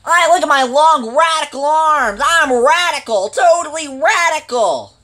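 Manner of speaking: put-on extreme hyped kids ad. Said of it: "Ow, that hurt my ears".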